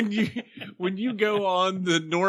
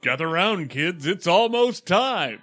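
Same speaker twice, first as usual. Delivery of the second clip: lightly voiced TV pitchman; a touch of commercial announcer; Silver Shamrock announcer; 2 semitones higher, 4 dB louder than usual. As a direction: call the kids in, building to "time". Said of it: "as the Silver Shamrock guy".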